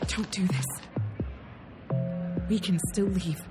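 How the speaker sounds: very low, soft warning; quiet, low urging; hushed plea. Acted. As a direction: plead under the officer's notice. Pleading quietly before the officer.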